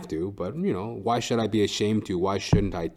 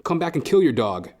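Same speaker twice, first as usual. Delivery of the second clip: usual speaking voice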